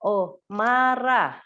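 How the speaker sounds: put-on slow, clear "Oh, marah" to a child; name the feeling slowly for a child; labeling emotion. Shown as a demonstration. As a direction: parent naming a child's anger, slow and clear. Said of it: "Mungkin waktu dia marah".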